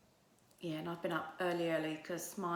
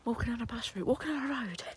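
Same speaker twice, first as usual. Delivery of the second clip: exasperated; 5 semitones higher, 4 dB louder than usual. Real, not acted. Indignant about slippers outdoors.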